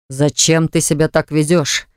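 slow, measured, trying to sound calm; diplomatic. Acted. Artur tries to calm Eva, slow and measured. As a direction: keep it even and slow. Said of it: "очень дипломатично".

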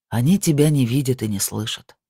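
plain reading voice

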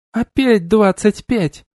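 high, slow exasperated cry. A narrator's reading. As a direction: throw up your hands in despair. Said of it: "всплеснула руками Лиранда". (раздражённо, высоко и протяжно)

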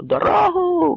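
high, ringing call to clear the way; крик; shout. Acted. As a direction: yell to part the crowd. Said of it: "кричав Кремезний".

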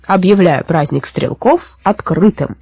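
slow, measured official proclamation; ceremonious opening, unhurried; solemn announcement. A narrator's reading. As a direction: declare the festival open. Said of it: "взмахнул саблей и сказал".

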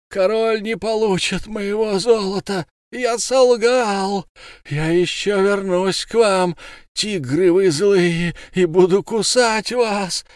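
high, slow, desperate cries; dying scream. A narrator's reading. Dying Fishmonger screaming at the crowd, high slow. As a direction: scream defiance while burning. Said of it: "он кричал".

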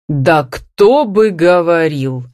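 very slow, heavily stressed retort; drawn-out exasperated comeback; in a temper. A narrator's reading. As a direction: throw it back in annoyance. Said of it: "в сердцах бросила мать".

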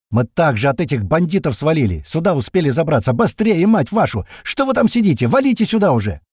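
loud, rising to high-pitched yelling; exasperated yelling. A narrator's reading. Stranger urges squad to the bunker, exasperated yelling. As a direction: build into an impatient holler.

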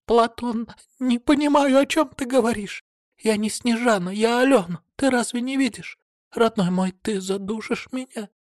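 high, panicked pleading woman; high frantic denial; desperate plea. A narrator's reading. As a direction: beg for your life. Woman pleads while being choked.

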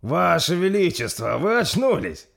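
high, loud, smiling delight; slow, elated exclamation; Торстейн overjoyed. Acted. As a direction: greet an awakened prince with joy. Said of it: "с улыбкой на лице произнёс".

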